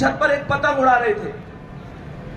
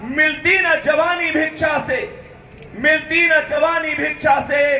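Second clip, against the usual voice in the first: poem recitation. Acted. Teacher reciting a war poem to students, rousing. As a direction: declaim each line twice for weight.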